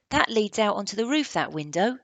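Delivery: loud, lightly voiced boy; a hint of the eager boy explaining; Indian boy's voice. Indian boy points out the window, lightly voiced. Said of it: "said the Indian".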